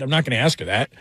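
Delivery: usual speaking voice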